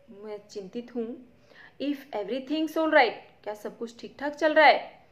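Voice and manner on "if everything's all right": nervous. Acted. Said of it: "थोड़ी चिंतित है, नर्वस है".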